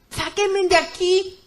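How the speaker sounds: high, slow plea for rescue; desperate cry. Retold or imitated. Woman trapped in the pit begs to leave, desperate cry. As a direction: call out, stretching each word. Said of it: "Empecé a gritar desesperada".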